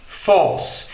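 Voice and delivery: "force" with no R; British force. Shown as a demonstration. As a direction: drop the R in "force". ("force" sem R)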